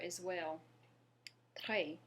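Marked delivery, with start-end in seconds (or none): 1.6-2.0 "Très" with French R and open eh; French R practice. Shown as a demonstration. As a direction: model the R in "Très", silent s. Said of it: "great word to practice your R".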